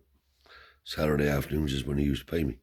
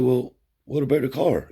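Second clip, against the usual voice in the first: much higher and louder, hearty; old man grilling a guest, voiced high and loud; grandfather's voice; 10 semitones higher, 7 dB louder than usual.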